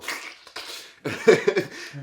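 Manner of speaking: noisy mock slobber; exaggerated wet slobbering noise; imitated slobbering. Storyteller imitating her slobbering on a pickle, slobbering noise. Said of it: "we all hear her go".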